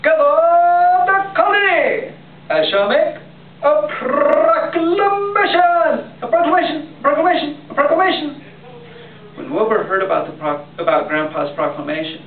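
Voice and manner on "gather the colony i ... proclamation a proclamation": booming royal decree; heroic, regal voice. Acted. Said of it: "he said in a heroic, regal voice".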